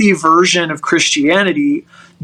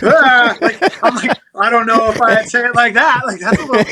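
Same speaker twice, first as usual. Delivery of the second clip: hesitant; 5 semitones higher, faster than usual. Retold or imitated. Retells his own hesitant reply.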